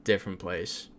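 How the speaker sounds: short, unimpressed retold reply; curt. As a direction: shut the small talk down curtly. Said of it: "just very curt with my response".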